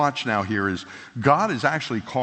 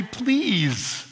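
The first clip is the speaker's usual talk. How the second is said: asking nice; 6 semitones higher than usual. Retold or imitated. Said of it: "I'll try to ask nice".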